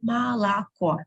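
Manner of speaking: "Молоко" said ma-la-KO; two ah vowels in "Молоко", then stressed oh; unstressed O as A. Shown as a demonstration. Teacher demonstrating the rule, "Молоко" with first two O as A. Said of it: "first two I pronounce as A".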